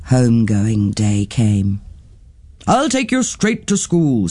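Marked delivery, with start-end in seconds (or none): 2.7-4.3 a hint of a bold, fond aunt; Auntie Twinkle. Auntie Twinkle praising Nettie, lightly voiced and easygoing.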